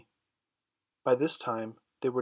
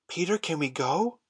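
put-on higher pleading children; imploring; 5 semitones higher than usual. A narrator's reading. The boys pleading with Peter, imploringly. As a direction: beg him, voices lifted. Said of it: "they all cried imploringly".

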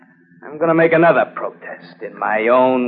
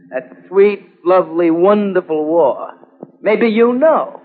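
bitter sarcasm; 7 semitones higher, 4 dB louder, slower than usual. Acted. Scarred veteran mocking the war.

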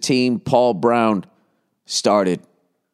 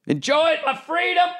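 very high falsetto mock voice; absurdly high-pitched mimicry; mocking defender. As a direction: play the innocent in a squeaky put-on falsetto. Same mocking falsetto, interjected aside.

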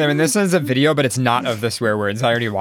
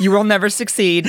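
mean parrot; 9 semitones higher, 4 dB louder than usual. Pretend. Continuing derogatory bird voice.

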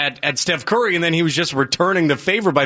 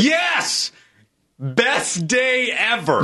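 triumphant; 5 semitones higher, much slower than usual. Real, not acted. Wins the argument.

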